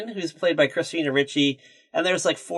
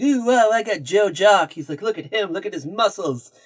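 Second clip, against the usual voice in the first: retold giddy excitement, pitched up; mock-thrilled gushing over a lucky win; higher voice, lightly acted delight; excited; 5 semitones higher than usual. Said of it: "he's all excited".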